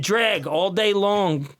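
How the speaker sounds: slow, drawn-out gloating yell, half laughing; gloating shout. Retold or imitated. Gloating after winning race.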